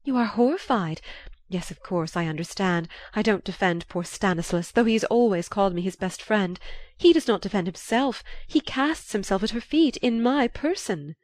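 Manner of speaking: gushing aristocratic lady voice; dramatic society lady. Acted. Marchioness voiced.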